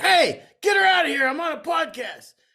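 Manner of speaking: loud, screamed outburst. Asking someone whether he screamed at a noisy grandkid, imitating someone screaming. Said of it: "you screamed".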